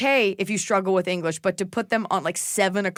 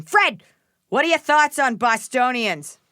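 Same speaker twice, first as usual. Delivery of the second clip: higher, louder eager fan voice; reading a fan question; 6 semitones higher, 4 dB louder than usual. Pretend. Reading a listener's question aloud to Fred in an eager voice. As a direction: read the question like an excited listener. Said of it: "Emily underscore Wilson underscore seventeen".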